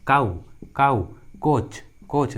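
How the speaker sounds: "काऊ, कोच" slowly, with a hard k; C pronounced as k. Shown as a demonstration. Teacher modelling C before O, slow hard-k demonstration. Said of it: "सी का उच्चारण क हुआ है".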